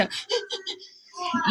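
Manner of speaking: soft, high gasps mimicking an upset child; imitated child's agitated breathing. Mother showing how her agitated daughter sounded, soft gasps. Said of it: "e ela fazia assim".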